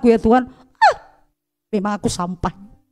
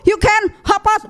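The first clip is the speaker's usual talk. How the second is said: raised, slow foreign boss voice; mock Indian boss; 8 semitones higher, much slower than usual. Preacher imitating the boss, raised and slow. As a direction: act out the Indian boss questioning her.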